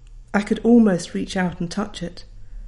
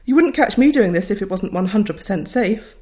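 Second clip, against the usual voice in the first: hearty teacher; 4 dB louder than usual. Retold or imitated. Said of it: "Missus Kelvin announced".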